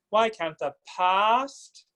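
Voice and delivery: slow Why can't the past with an in-between ah; Mid-Atlantic past. Shown as a demonstration. Coach models the vowel in the lyric: Mid-Atlantic past. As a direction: stretch past with the middle vowel. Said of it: "here's another ah vowel".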